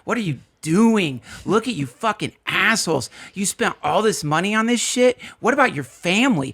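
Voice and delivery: jab insults at the sobbing men; masseuse berating. Acted. Masseurs mocking weeping men in the jungle, half-hammed scorn. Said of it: "they're like, just like what you said".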